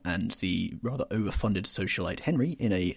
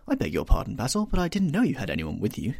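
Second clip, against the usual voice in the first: put-on louder, wilful young man; a youth who is bored of sitting; lightly voiced petulant lad; petulant young Dorian; 2 semitones higher, 5 dB louder than usual.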